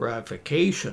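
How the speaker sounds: ratification, second-last syllable ca stressed. Explaining the -tion stress rule, with stress on 'ca' in ratification. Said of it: "we emphasize the second last syllable".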